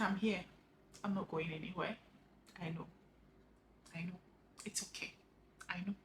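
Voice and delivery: soft, hushed retold comfort; gentle reassurance. Retelling how a woman comforted her online, gently reassuring. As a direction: imitate someone quietly consoling, with long pauses.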